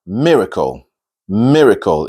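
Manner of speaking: "miracle" as "MIR-uh-kul"; weak middle vowel. Shown as a demonstration. Teacher introducing the next word, correct "miracle". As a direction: keep the middle of "miracle" a small schwa. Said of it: "upside down E meaning is not".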